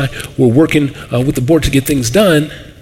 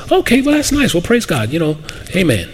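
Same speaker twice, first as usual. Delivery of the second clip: polite brush-off; 3 semitones higher than usual. Retold or imitated. Pastor hears of a stranger, politely dismissive. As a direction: sound nice but not buy it. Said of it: "And I said".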